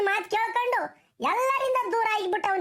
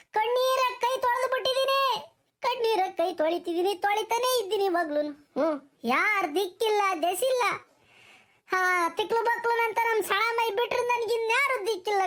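mildly tearful, higher-pitched lament; 4 semitones higher than usual. Acted. Deserted wife telling the village elder she has nobody, tearful lament. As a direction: plead through a touch of tears. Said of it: "ಅಳಬೇಡ, ಸಮಾಧಾನ ಮಾಡ್ಕ".

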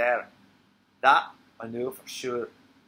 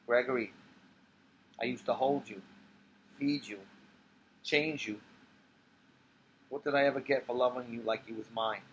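put-on tipsy old woman; 3 dB quieter than usual. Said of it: "She turns into Sophie".

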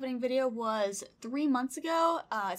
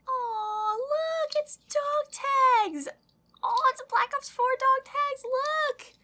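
very high, drawn-out excited squeal; delighted squeal; 5 dB louder, much slower than usual. Real, not acted. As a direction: squeal with delight over a gift. Delighted reaction to a gift.

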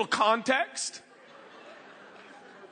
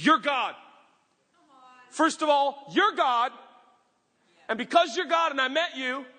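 proclaiming Zacchaeus; 4 semitones higher than usual. Acted. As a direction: declare it like a vow. Zacchaeus's declaration at table.

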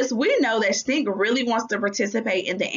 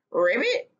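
croaking. Acted. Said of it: "Stink croaked".

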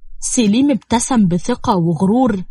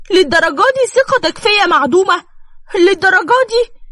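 crying repeat; 8 semitones higher than usual. Acted. Wife repeats earlier plea, now crying.

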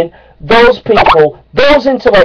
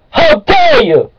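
slow, shrill, very high how dare you; high outraged shriek; slower than usual. Acted. Creationist ranting at laughing evolutionists, high slow outraged shriek.

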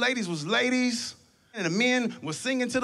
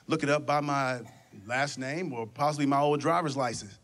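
lower, hesitant customer voice; meek customer; 6 semitones lower than usual. Retold or imitated. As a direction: customer hoping the clerk looks it up, low and timid. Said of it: "So you'd be like".

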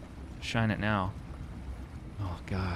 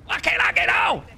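real panic, pitched up and pushed; panicked plea; 10 semitones higher than usual. Real, not acted. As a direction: still begging, voice up high. Repeats plea, still stuck.

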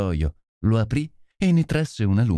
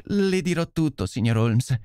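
exclaiming; 5 semitones higher than usual. Acted. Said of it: "esclamò la signora".

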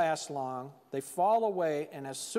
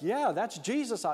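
slow, higher-pitched mock excitement; excited relief; 4 semitones higher than usual. Peter recognizing Jesus on the water, mildly excited. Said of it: "all of a sudden getting excited".

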